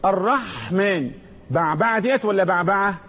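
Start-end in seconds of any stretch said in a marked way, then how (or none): 0.0-1.1 الرحمن slowly, lingering on the breathy ح; slow الرحمن with an audible Haa; husky Haa. Shown as a demonstration. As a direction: draw out the throat friction of ح in الرحمن. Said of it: "بحة".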